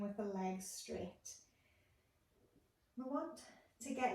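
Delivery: calm instructing voice with long pauses; guided meditation. Acted. Therapist guiding listeners lying on the floor, calm meditation voice. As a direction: guide a body scan, unhurried, pausing between steps. Leads a guided body scan.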